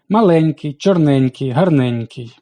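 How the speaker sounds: маленький, чорненький, гарненький with the Е of -еньк- stressed; stress on suffix -еньк-. Shown as a demonstration. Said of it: "завжди є наголошеним". (наголос на суфікс -еньк-: маленький, чорненький, гарненький)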